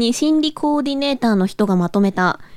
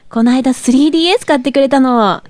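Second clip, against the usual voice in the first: japanese gyaru slang. Acted. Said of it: "ギャルっぽく無理があるよね".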